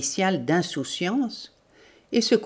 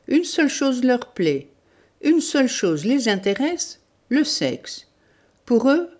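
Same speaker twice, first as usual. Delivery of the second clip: higher, emphatic outburst; exclaiming; 6 semitones higher, 4 dB louder than usual. A narrator's reading. Boldirov railing about the men of this country, exclaiming. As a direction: exclaim it like a sweeping verdict. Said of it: "Il s'écria".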